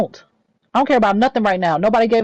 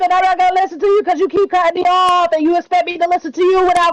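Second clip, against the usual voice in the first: higher-pitched, insistent protest over the other voice; exasperated shouting; 5 semitones higher than usual. Real, not acted. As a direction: shout them down, fed up at being interrupted. Shouting match over being interrupted.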